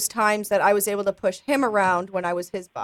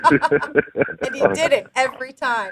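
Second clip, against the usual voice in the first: slow, laughing through the words; 5 semitones higher, 5 dB louder, slower than usual. Real, not acted. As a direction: giggle as you tell it. Laughing while telling.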